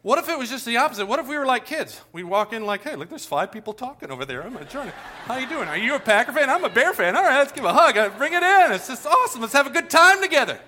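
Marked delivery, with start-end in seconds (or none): 2.8-10.6 put-on kid-like excitement. Pastor imitating adults acting like kids, eager and loud. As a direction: greet strangers like an overjoyed child.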